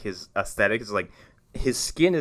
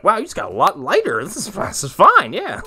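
mock quote; 9 semitones higher, 3 dB louder than usual. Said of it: "we were like".

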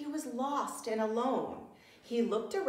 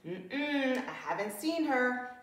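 chattering; 5 semitones higher than usual. Acted. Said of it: "he chattered".

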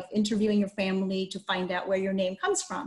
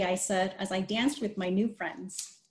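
even, read-aloud storybook voice; story narration; 5 dB quieter than usual. A narrator's reading. Teacher reading a picture book to children, storytelling voice.

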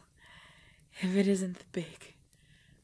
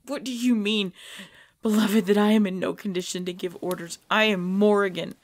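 firm, louder orders from a leader; commanding; 4 dB louder than usual. Acted. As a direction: assert authority over her husband. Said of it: "that is an order".

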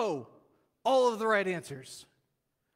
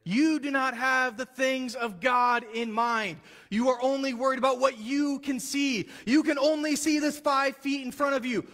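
forceful rebuke; 5 semitones higher, 4 dB louder than usual. Retold or imitated. Jesus scolds Peter, loud and forceful. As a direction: preach it hard at him.

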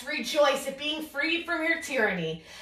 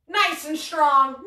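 strong and proud; slower than usual. Shown as a demonstration.

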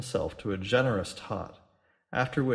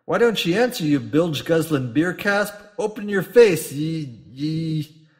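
furious yell; 5 semitones higher, 8 dB louder than usual. A narrator's reading. Captain yells at landlord.

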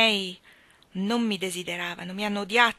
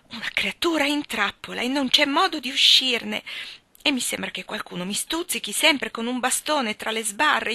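raised, louder, resentful outpouring; a lightly voiced Catherine, hurt and accusing; bitter young woman; 3 semitones higher, 4 dB louder than usual. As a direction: spill out years of resentment at her friend. Catherine's bitter outburst to Anna.

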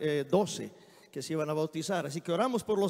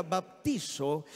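slow Greek word; 4 semitones lower, 4 dB quieter, much slower than usual. Shown as a demonstration. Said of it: "viene de una palabra griega".

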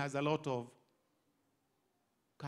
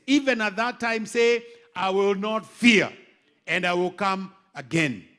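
forceful preaching; 2 semitones higher, 7 dB louder than usual. Acted. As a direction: declare it like a rallying call.

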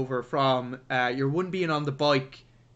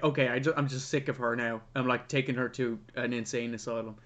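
Auntie M voiced; 5 semitones lower, 6 dB quieter, faster than usual. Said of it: "she's like".

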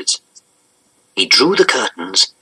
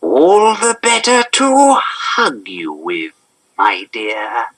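wolf posing as grandmother; slower than usual. A narrator's reading. Voices disguised wolf.

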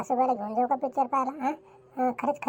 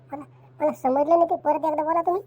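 higher and louder disbelief; louder shock; 3 semitones higher, 3 dB louder than usual. Acted. Wife demanding her husband repeat the news, louder and higher.

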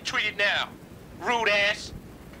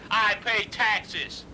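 "I pay taxes" dragged out very slowly, each word weighted; slow emphatic repeat; much slower than usual. Acted. Caller repeating to the manager, slow and emphatic. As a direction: spell it out slowly to make the point.

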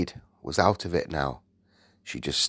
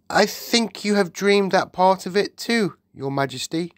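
calm; 10 semitones higher, 3 dB louder than usual. A narrator's reading. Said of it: "Sophie said calmly".

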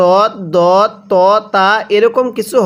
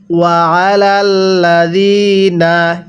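slow chant of ওয়া আলাল্লাযিনা with held doubled ল; Quran recitation; slower than usual. Shown as a demonstration. Teacher recites the verse for students, slow melodic chant. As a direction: stretch ওয়া আলাল্লাযিনা slowly. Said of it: "কিভাবে শিখব?".

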